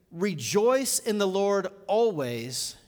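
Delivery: slow, weighty "Rejoice in the Lord always"; emphatic reading. Retold or imitated. Preacher quoting the letter to the congregation, with slow emphasis. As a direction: draw out "Rejoice" and "always" deliberately. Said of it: "that's with emphasis".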